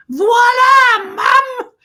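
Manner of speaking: loud, high, showy announcement; calling to mum. Pretend. Child turning to mum, loud proud flourish. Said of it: "turn to your mum and say".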